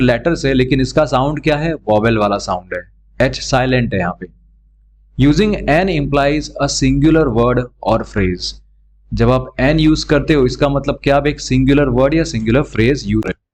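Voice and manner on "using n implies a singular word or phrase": reads the rule out very slowly; slow rule reading. Shown as a demonstration. Teacher reading the grammar rule aloud slowly to students. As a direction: dictate the rule word by word.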